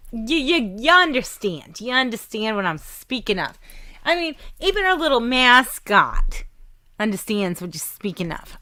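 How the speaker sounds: playful New York accent, lightly put on; mock New York accent. Host teasing listeners in a mock New York accent. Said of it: "that's the only accent I can actually do".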